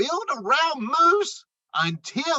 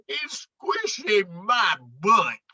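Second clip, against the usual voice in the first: groaning grumble. Acted. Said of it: "He groaned and he grumbled".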